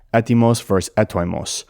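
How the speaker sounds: "Etymos" said e-TEE-mos, then "etoimos" with an oi sound, eh-TOY-mos; modern versus ancient pronunciation. Shown as a demonstration. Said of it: "the O I diphthong is just pronounced E".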